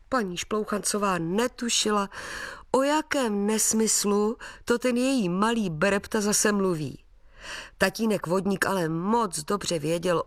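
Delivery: ordinary delivery, nothing marked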